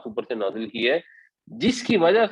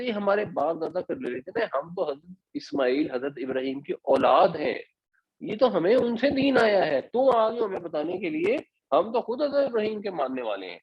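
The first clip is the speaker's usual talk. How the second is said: mimicking the polytheists; 6 semitones higher than usual. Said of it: "کہتے".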